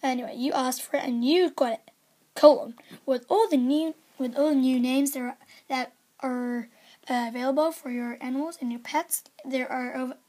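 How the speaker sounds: upbeat announcer read; lively game-news announcer. Acted. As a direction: sell each line like an ad. Reads game news aloud.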